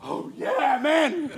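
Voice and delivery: gushing fake thrill, not how he really sounded; mock excited. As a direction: act overwhelmed with joy, tongue in cheek. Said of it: "not like".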